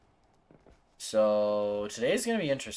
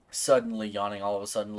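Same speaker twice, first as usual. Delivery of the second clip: self-mocking echo; 5 semitones lower, faster than usual. Real, not acted. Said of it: "Listen to me".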